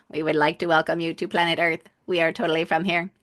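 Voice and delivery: quick, slightly off alien visitor voice. Acted. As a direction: play a friendly alien greeting humans. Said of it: "Alien voice".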